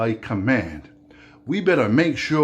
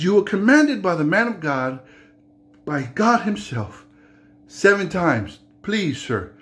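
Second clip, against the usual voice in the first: insistent, raised plea; pleading servant; 4 semitones higher than usual. Acted. Servant urging Naaman to obey, earnest and higher. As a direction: press him earnestly.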